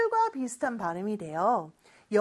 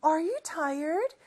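slow model reading; 4 semitones higher, much slower than usual. Shown as a demonstration. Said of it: "이렇게 발음합니다".

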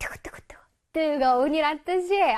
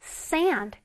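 slower sand; 3 semitones lower than usual. Shown as a demonstration. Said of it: "조금 이게 천천히 해볼까?".

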